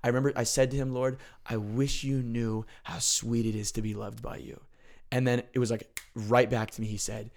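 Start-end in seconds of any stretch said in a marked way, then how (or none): 0.9-4.6 tender. Retold or imitated. Retelling his emotional prayer.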